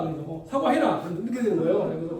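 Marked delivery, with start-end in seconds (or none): 0.3-1.1 Gyeongsang dialect. Retold or imitated. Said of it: "거기 사투리로 조금 말씀드리면".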